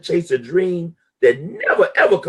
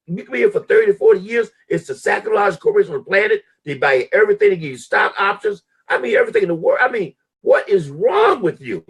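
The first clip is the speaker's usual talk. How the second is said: exasperated shout; 6 semitones higher than usual. Retold or imitated. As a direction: yell at yourself to keep the job. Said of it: "I said".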